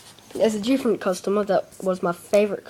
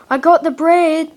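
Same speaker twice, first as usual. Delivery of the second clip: wife voice; 7 semitones higher, 5 dB louder than usual. Retold or imitated. Wife voiced in retold story.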